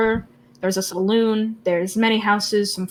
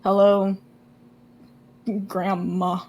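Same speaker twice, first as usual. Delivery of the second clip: halting, subdued hello; resigned greeting. Acted. Orion accepts grandma's big hug, resigned. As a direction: put up with the hug, pausing before the name. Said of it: "silently accepting this hug".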